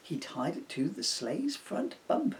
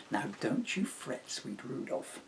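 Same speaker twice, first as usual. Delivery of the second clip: gentle comfort. Acted. Emily comforts Rudolph.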